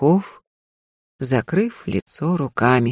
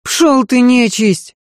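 higher, louder swearing; a maid cursing the rooster, higher and louder; 6 semitones higher, 4 dB louder than usual. Acted. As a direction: snap at the rooster. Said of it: "выругалась".

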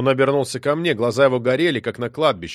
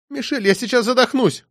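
wheezing; 11 semitones higher than usual. Acted. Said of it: "прохрипела она".

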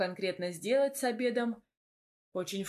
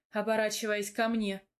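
ordinary delivery

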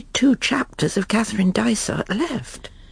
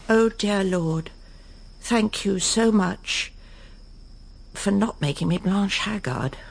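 slow, solemn little prayer. Acted. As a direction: pray slowly, with relief. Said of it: "I think I'm going to pray".

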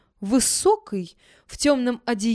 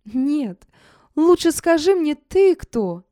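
ringing laughing voice; 5 semitones higher, 6 dB louder, slower than usual. A narrator's reading. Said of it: "засмеялась своим звонким голосом".

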